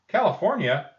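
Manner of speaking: high, loud delighted question; surprised echo. Acted. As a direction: echo it back amazed. Teacher echoes the answer, delighted.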